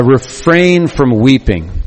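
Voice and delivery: slow, gentle words of comfort; gentle reassurance. Retold or imitated. Preacher voicing God comforting his weeping people, gentle and slow. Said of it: "God says".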